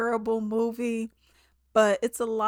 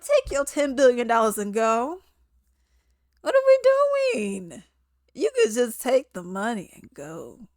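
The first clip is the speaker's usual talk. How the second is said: loud, high-pitched exasperated outburst; exasperated yelling; 3 semitones higher, 8 dB louder than usual. Acted. Viewer telling the vengeful villain to take the money, exasperated yelling. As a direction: yell at them like they're being ridiculous. Exasperated acted reaction to the character.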